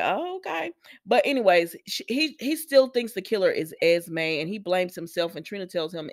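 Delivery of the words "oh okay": reluctant agreement. Retold or imitated. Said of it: "she was like".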